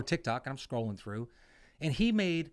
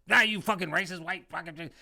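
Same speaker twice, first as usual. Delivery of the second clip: mock outrage; 4 semitones higher, 5 dB louder than usual. Mocking online outrage.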